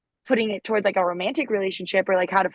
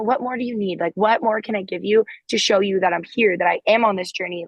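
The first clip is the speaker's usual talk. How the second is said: open, sincere. Shown as a demonstration. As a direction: ask it gently, reaching out. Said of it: "But just, like, you know".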